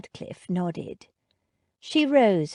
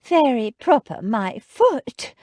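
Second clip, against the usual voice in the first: louder, wobbling indignation; 5 semitones higher, 6 dB louder than usual. A narrator's reading. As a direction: near tears, voice wobbling. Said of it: "Jane's voice wobbled".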